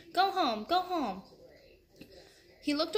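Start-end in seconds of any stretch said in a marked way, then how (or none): 0.1-1.2 a boy yelling at the elephant to go home, lightly voiced; urging yell. A narrator's reading. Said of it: "Jack yelled at, again at the elephant".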